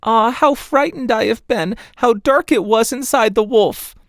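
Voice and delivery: put-on a child just freed, still scared; high frightened little girl exclaiming; frightened girl crying out. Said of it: "sprang out crying".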